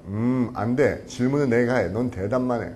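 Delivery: low, condescending refusal; arrogant. Acted. Arrogant friend refusing to be questioned, low and bossy. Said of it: "열나 싸가지 없죠?".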